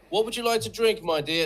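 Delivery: high, loud film-star impression; Cary Grant. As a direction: imitate a suave movie star offering a drink. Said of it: "it's going into Cary Grant now".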